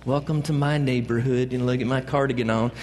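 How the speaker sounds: lightly put-on accent for a TV host; a hint of an odd, put-on accent; Mister Rogers accent. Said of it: "that accent".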